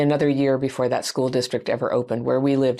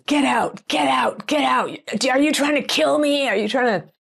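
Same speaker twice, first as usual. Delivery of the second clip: retold screaming; 11 semitones higher than usual. Woman yelling at teenage son in bakery, high mock scream. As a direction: imitate a woman screeching in panic, pitched way up. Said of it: "she just starts screaming at him".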